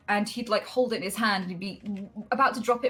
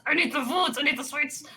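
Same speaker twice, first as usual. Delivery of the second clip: put-on sweet-craving kid; 8 semitones higher than usual. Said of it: "I was, like, hooked on sweets".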